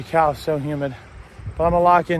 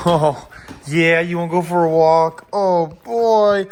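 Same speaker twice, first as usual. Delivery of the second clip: excited dog talk; 3 semitones higher, 5 dB louder, slower than usual. Real, not acted. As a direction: hype the dogs up for a walk. Asking the dogs again.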